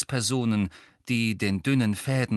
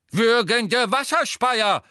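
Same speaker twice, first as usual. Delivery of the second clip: high, slow, loud exclamation; scandalised old examiner's cry; professor crying out; 11 semitones higher, 6 dB louder, slower than usual. A narrator's reading. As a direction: exclaim in shocked outrage. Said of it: "rief Professor Tofty".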